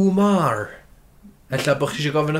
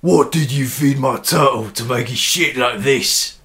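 slow, drawn-out Cockney; broad London Cockney, unhurried; London Cockney accent; 3 semitones lower, slower than usual. Shown as a demonstration. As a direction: put on a Cockney voice, stretching the words. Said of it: "London Cockney".

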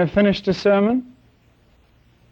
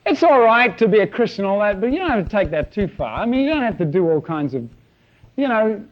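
lightly mocking, higher, breezy worldly churchgoer; people pleaser voice; 3 semitones higher than usual. Preacher mocking a people pleaser, in a higher, lightly breezy voice. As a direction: brush off faith with a light, mocking lilt. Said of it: "the kind of thing the people pleaser will say".

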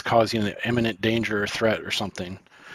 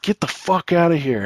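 higher-pitched retelling of an irate outburst; a touch of barking fire; retold angry bark; 5 semitones higher than usual. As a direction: mildly imitate someone barking orders. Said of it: "started barking fire".

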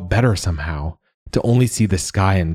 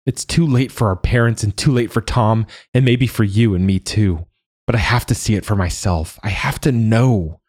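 messy rush; 4 semitones higher than usual. Acted. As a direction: let it spill out in a rush. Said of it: "the words coming out in a messy rush".

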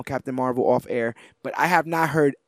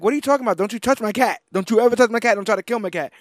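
higher, indignant mock scolding; protective scolding; 6 semitones higher, much faster than usual. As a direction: defend the cat, pitch up and scold. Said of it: "she's like".

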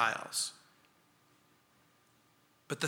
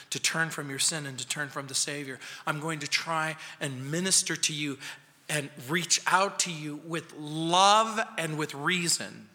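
gentle patient reply; 3 semitones lower, 4 dB quieter than usual. Retold or imitated. Voicing gentle Christian.

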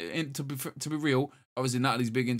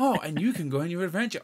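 mock patronizing voiceover, raised pitch; 5 semitones higher than usual. Mimicking the trailer's voiceover lady, patronizing. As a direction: imitate a condescending game narrator. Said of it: "patronizing voiceover".

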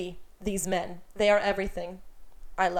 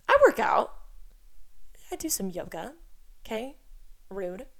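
indignant protest. Acted. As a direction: squeal it out in mock outrage. Indignant defense against mom's jab.

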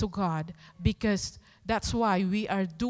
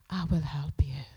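whispered promise; 6 semitones lower than usual. Acted. God reassuring a fearful servant, whispered. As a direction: breathe it like God leaning close. God's comforting promise quoted.

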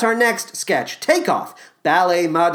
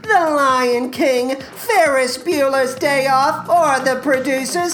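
a hammed-up, self-important star voice pitched higher; Matthew Broderick impression; 3 semitones higher than usual. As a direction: play a vain film star plugging coffee, lightly put on. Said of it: "for Matthew Broderick to do".

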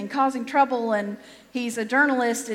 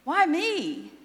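mock plaintive objection, rising to a wail on the last words; protesting to God; 3 semitones higher than usual. Moses objecting to God about being picked, plaintive protest. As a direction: plead your way out of it, pitch climbing. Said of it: "still objecting to God, saying".

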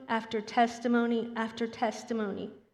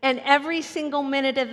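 preaching emphatically; 3 semitones higher, 6 dB louder than usual. Real, not acted. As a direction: hammer the point home to the congregation. Preacher drives point home.

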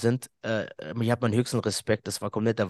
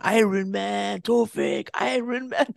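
imitating sister's cheer; 8 semitones higher, slower than usual. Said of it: "Und sie schreit schon".

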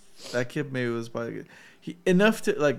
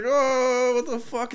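high mock baby voice; 9 semitones higher, much slower than usual. Voicing an x-rayed baby.

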